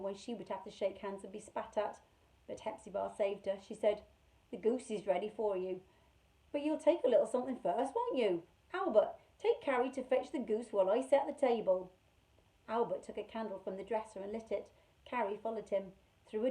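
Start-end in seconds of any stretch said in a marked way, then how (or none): 4.5-11.9 kindly housekeeper. Acted. Hepzibah speaking to children.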